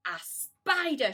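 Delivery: high, loud, slow shriek; crying out. A narrator's reading. Aunt Sponge spotting the spider on the ceiling, loud high cry. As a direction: shriek at the sight of it. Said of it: "she cried".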